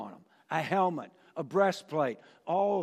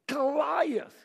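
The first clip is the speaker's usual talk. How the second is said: booming name; shouted name; 8 semitones higher than usual. Acted. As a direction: cry the giant's name out.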